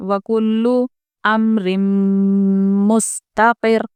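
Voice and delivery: slow recitation with a stop on the doubled ल of वकुल्लु; tajweed recitation; Quran recitation. Shown as a demonstration. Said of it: "वकुल्लु रुक जाएं".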